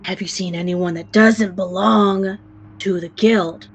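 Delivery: gruff, impatient guard voice; rough questioning. Acted. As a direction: put on a rough voice to press the jester. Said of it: "a voice ask very roughly".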